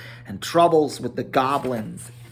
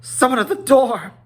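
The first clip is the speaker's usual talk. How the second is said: dwarf at the door; 11 semitones higher, 6 dB louder, faster than usual. A narrator's reading. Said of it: "he said, blinking".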